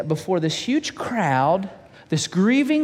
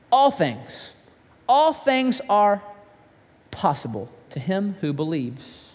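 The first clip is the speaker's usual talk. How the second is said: solemn promise; slower than usual. Acted. Jesus delivers the promise.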